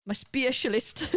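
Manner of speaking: specialist said as spatialist in Geordie; Geordie accent. Shown as a demonstration. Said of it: "like, a Geordie accent".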